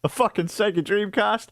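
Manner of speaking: high, slow, laughing eager ask; laughing, high-pitched ask to the shop; excited, laughing phone call. Retold or imitated. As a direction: beg the shop for a Dreamcast, grinning. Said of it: "Call up the same store".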